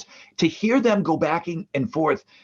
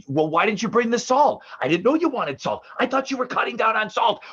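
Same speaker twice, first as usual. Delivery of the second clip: higher, nagging voice of a bickering mother; bickering mom; 5 semitones higher than usual. Retold or imitated. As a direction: nag about the salt like mom at dinner. Mom and sister bicker over salt.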